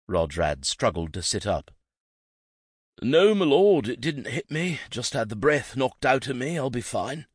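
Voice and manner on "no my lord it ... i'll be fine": winded servant. A narrator's reading.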